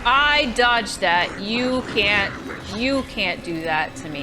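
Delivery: panicking gamer. Real, not acted. Getting hit in combat.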